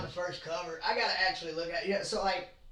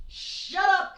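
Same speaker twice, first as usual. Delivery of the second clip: mock snap; 12 semitones higher, 5 dB louder than usual. Snapping back at imagined commenters.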